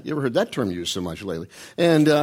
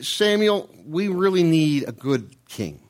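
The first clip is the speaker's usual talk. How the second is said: begging people; 5 semitones higher, slower than usual. Retold or imitated.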